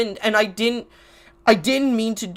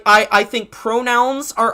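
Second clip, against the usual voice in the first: ordinary talk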